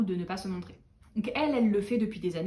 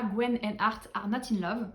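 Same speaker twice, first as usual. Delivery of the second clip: English title in a French accent; slower than usual. Real, not acted. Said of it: "Oh, mon accent, vraiment, mais c'est pas possible". (anglais avec l'accent français)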